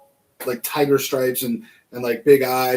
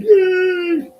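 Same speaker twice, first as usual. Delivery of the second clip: little cheer; 9 dB louder than usual. Real, not acted. Cheering progress on the build.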